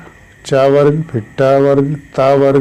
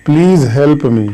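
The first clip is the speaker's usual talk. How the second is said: slow example; 2 semitones higher, much slower than usual. Shown as a demonstration. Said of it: "तो please help me का जब passive voice".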